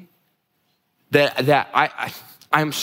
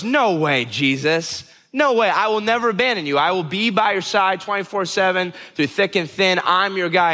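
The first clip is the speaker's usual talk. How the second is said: higher-pitched, emphatic vow of loyalty; insistent protest; 4 semitones higher than usual. Retold or imitated. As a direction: protest as the devoted friend, pitch lifted. Acted Peter protests to Jesus.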